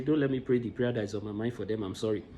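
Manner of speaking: quietly fighting tears; holding back emotion. Real, not acted. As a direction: voice sinking low and soft, choked up. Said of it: "I don't want to get emotional".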